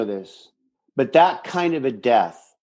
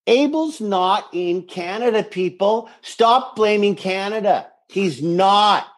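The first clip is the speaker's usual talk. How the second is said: raised, exasperated scolding; mock rant; 5 semitones higher than usual. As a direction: scold the fans in jest.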